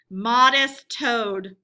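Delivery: slow, drawn-out mock praise; sarcastic. A narrator's reading. Weasel sneering at absent Toad, slow sarcasm. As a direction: stretch it out with sarcasm.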